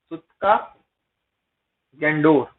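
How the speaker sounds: सुक्ता गेंडोर split slowly for learners; broken-up repetition. Shown as a demonstration. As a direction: dictate सुक्ता गेंडोर one word at a time. Teacher repeats place name in parts.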